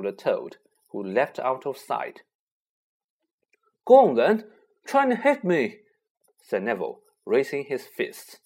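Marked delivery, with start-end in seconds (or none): 3.9-5.8 defiant challenge. Acted. Neville challenging to a fight.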